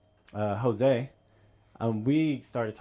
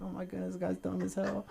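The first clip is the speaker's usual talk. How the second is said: amused disbelief; 7 semitones higher, 9 dB quieter than usual. Retold or imitated. Muttered thought about dumb friend.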